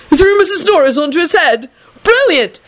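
high, squealing delight; gleeful. A narrator's reading. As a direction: crow with delighted amazement. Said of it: "Neville said gleefully".

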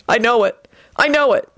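mildly frantic, rising repetition. A narrator's reading. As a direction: climb in pitch with worry. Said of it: "he thought frantically".

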